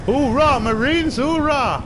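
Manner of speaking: high loud battle cry; Marine cheer. Pretend. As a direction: shout it like a drill Marine.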